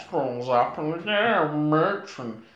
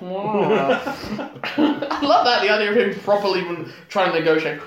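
laughing; 5 semitones higher than usual. Real, not acted. Laughing into the idea.

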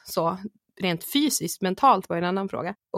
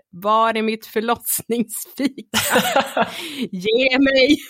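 mock demand; 2 semitones higher, slower than usual. Demanding her birth snack.

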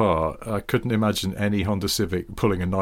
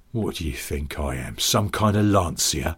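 low, lightly put-on Cockney; a mild, mock-indignant Cockney challenge; Cockney insult; 4 semitones lower than usual. Co-host trades car-based insults, mildly indignant Cockney. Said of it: "what's mysterious about Cockney insults".

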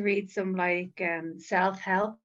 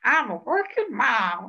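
slow, loud, mock-proud declaration; proud working mom; 3 semitones higher, 5 dB louder than usual. Joining the joke, a loud mock-proud working mom. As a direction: announce it like a badge of honour. Playing along with the bit.

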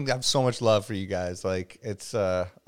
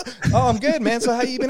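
higher half-shouted rant; mock mixed rage; 12 semitones higher, much faster than usual. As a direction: snap between rage and chat. Mix of rage and chat.

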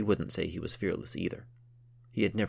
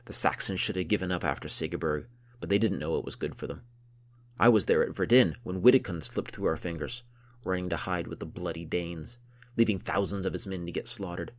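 gruff count voice; 5 dB louder than usual. Acted.

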